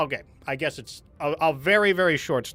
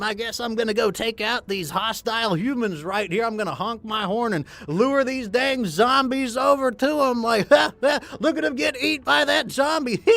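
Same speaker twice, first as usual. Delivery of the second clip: high, louder, bubbly streamer voice with cackling; goofy content creator; 7 semitones higher, 4 dB louder than usual. Retold or imitated. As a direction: flip instantly into a cheery goofy YouTuber. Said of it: "switch right back to being, like, a goofy content creator".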